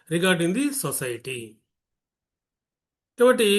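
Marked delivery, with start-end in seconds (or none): 0.1-1.4 each word drawn out slowly for the class; slow explaining. Shown as a demonstration. Teacher explaining a word root to students, very slowly. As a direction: lay the meaning down word by word.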